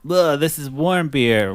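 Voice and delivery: high, slow mock disgust. Imitating him sipping warm beer, mock disgust. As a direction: groan over a bad sip, play-acted. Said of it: "He's like".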